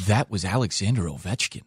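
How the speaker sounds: wide-eyed amazement, rising pitch; awestruck goalie. Retold or imitated. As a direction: gush like you saw a ghost. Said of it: "He's like".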